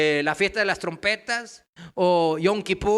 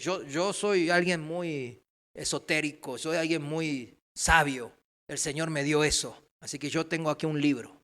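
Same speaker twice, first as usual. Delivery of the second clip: imitated self-styled sage; 3 semitones lower than usual.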